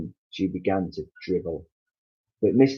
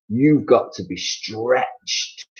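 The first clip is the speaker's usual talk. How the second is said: slow, drawn-out pronouncement; husband announcing the cure; Mister Twit, slow verdict; 4 semitones higher, 4 dB louder, much slower than usual. Acted. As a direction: drag it out with menace.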